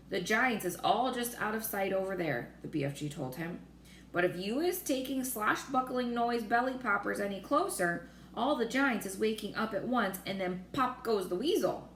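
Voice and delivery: lightly voiced friendly giant, earnest; a hint of a kindly giant explaining; gentle giant voice, barely shifted; BFG. BFG speaks in story.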